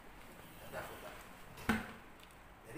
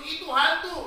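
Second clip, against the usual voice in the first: frightened shout; 7 semitones higher, 8 dB louder, slower than usual. A narrator's reading. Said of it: "berteriak-teriak karena takut".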